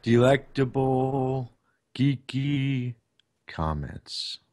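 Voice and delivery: slow, grand movie trailer voice; epic voice. Shown as a demonstration. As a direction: drag each word out like a trailer announcer. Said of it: "do the epic voice you did last time".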